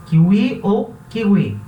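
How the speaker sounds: kiwi as kiui then kigui; two kiwis. Shown as a demonstration. Teacher contrasting both kiwi pronunciations. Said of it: "como se fosse um U".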